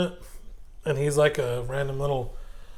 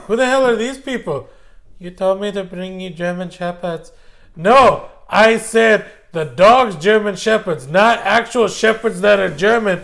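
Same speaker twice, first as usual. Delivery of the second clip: exasperated captain; 5 semitones higher, 6 dB louder than usual. Retold or imitated. Acted quote of SS captain.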